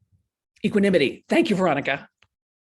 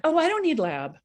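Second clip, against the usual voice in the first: defensive insisting; 3 semitones higher, faster than usual. Retold or imitated. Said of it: "part of it is this like".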